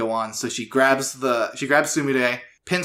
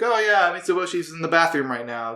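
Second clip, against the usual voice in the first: voicing the mom; 5 semitones higher than usual. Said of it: "And she's like".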